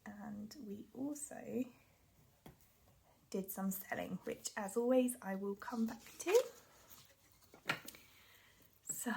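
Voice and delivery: short of breath, breathy pauses; winded, breathing between phrases. Real, not acted. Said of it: "I do apologise if I'm a bit out of breath".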